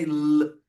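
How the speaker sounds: "L" as a held lll, not the letter name; prolonged voiced "L"; sound of L. Shown as a demonstration. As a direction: keep the tongue up and sustain "L". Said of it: "o som do L".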